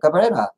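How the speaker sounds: "Cabrera" with a tapped Spanish r; Spanish pronunciation. Shown as a demonstration. Vlogger showing viewers the name, "Cabrera" pronounced in Spanish. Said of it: "that's how you say it".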